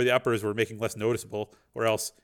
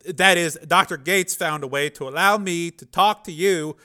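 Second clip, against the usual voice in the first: higher, louder anxious babble; nervous Dev; 7 semitones higher, 8 dB louder than usual. A narrator's reading. Dev lying to the program, anxious. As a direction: talk fast to cover.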